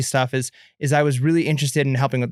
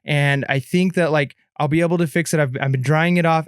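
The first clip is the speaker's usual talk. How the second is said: fake crying; 2 semitones higher than usual. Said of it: "I'm pretending to be crying".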